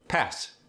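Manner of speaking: "Pass" with a crisp, sharp final S. Shown as a demonstration. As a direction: hit the S in "Pass" hard and crisp. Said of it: "It's crisper".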